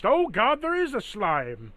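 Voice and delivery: high, loud cry of alarm; panicked son. Acted. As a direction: play a frightened son shrieking a warning. Son repeats alarm about the slime.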